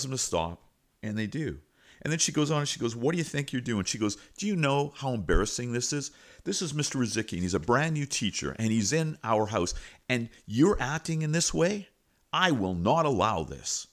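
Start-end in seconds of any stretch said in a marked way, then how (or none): 3.0-3.8 higher-pitched mock telling-off; retold scolding. Principal confronts two fighting boys, imitated scolding. 4.4-13.9 raised-pitch indignant reprimand; retold scolding. Principal shames boys before new teacher, imitated scolding.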